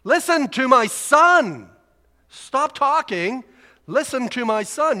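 slow, loud, commanding voice from heaven; voice of God. Retold or imitated. Preacher voicing God cutting off Peter, slow and booming. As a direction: boom it out like God speaking from the cloud. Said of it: "And basically said".

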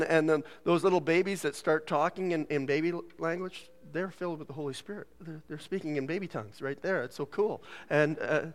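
ordinary talk, nothing marked

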